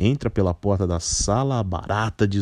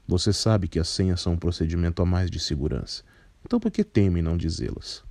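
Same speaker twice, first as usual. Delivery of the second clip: put-on a lightly lowered, composed older man; low, measured voice; 3 semitones lower than usual. Carpinteiro questions the barata.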